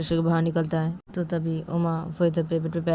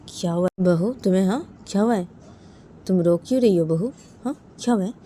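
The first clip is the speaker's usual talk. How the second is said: lightly voiced aunt, insistent questions; concerned aunt; 3 semitones higher, 4 dB louder, faster than usual. Aunt asks daughter-in-law why she cries, lightly acted concern. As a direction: press her gently for an answer.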